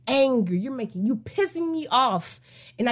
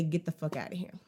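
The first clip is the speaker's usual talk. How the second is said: much lower and softer; hesitant kiss-off; 7 semitones lower, 11 dB quieter, faster than usual. Retold or imitated. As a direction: say it under your breath, unsure you dare. It's not that easy to just say.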